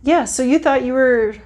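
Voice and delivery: ordinary talk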